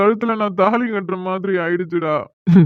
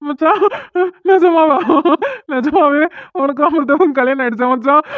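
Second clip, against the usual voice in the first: stunned disbelief; 5 semitones higher than usual. Acted. Friend hears the shocking news.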